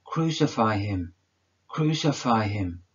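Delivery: loud, falling repeated shout; the crowd demanding his death, shouted; crowd's cry. Acted. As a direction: chant it like an angry mob. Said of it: "I hear the cry of all".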